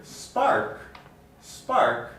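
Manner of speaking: SPARK with no puff after the P; unaspirated P. Shown as a demonstration. Teacher contrasting with park, unaspirated spark. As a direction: keep the P in spark free of breath. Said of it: "it's not the initial segment in the word".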